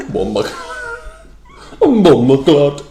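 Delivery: laughing, exaggerated mimicry of a bad Jamaican accent; mocking Jamaican accent. Teasing friend's attempt, laughing mock Jamaican accent. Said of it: "taking the piss".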